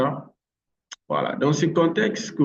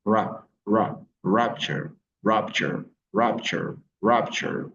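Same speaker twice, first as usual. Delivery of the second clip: "rupture" broken down, then stressed on RUP; stress on first syllable; slower than usual. Shown as a demonstration. Teacher drilling learners, "rupture" stressed on the first syllable. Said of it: "L'accent tonique est placé sur la première syllabe".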